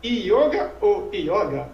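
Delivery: "yoga ou yoga", first with closed o, then open o; yoga two ways. Acted. People asking which yoga is correct, two contrasted pronunciations. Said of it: "qual que é o correto?".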